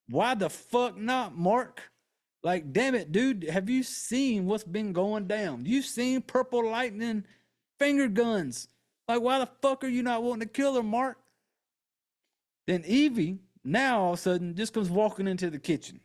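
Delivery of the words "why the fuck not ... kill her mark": high, rising disbelief at a movie character; exasperated outburst. Pretend. Fan shouting at Mark to kill Evie, high and exasperated. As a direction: yell at the screen like he can't believe it. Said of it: "And I'm just like".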